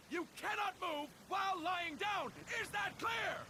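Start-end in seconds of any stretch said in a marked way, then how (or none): 0.1-2.3 emphatic repeat. Shown as a demonstration. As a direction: bark the rule out firmly. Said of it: "I'll say that again".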